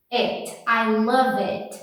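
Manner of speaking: "it" with a short closed vowel, slow. Shown as a demonstration. Teacher drilling a short closed "it". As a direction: stretch "I love it" slowly. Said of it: "É um I fechado".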